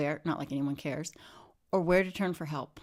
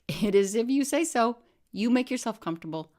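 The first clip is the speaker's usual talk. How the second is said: nurse voice; 5 semitones higher, 4 dB louder than usual. A narrator's reading. Nurse answers patient in story.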